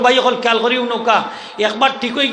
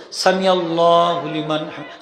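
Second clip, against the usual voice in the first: slow drawn-out recitation; 5 semitones lower, slower than usual. Shown as a demonstration. Imam shows when সামি starts, slowly drawn out. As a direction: stretch সামি out slowly as the head rises. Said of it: "সিন শুরু".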